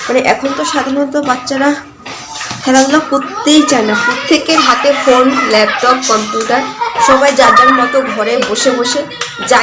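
talking through a toothbrush; while brushing teeth. Real, not acted. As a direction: mouth full of toothpaste foam. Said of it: "brush করতে করতে একটা কথা".

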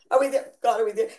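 lightly voiced impatient child on a car trip; little kid. Believer asking God like a child, lightly whiny. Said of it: "Like a little kid".

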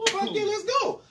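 high, excited burst of joy; hyped yes. Retold or imitated. Teen told he can drive, excited high yelp. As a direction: jump at the chance like a kid.

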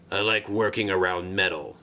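low, gruff grunt of a line. Acted. Sixteen grunting his answer to the controller, gruff and low. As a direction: grunt it out sullenly. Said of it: "he grunted".

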